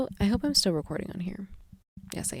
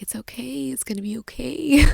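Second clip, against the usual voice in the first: put-on higher, soothing child voice; imitating her daughter; 5 semitones higher than usual. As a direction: lightly play the little girl reassuring. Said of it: "she's like".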